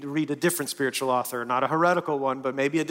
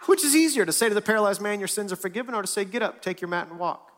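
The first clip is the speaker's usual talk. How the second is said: Jesus challenging; 7 semitones higher than usual. A narrator's reading. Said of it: "he said to them".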